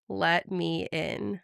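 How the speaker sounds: slow, drawn-out menacing demon; demonic voice. Retold or imitated. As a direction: stretch it out like something evil. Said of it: "And then in a demonic voice".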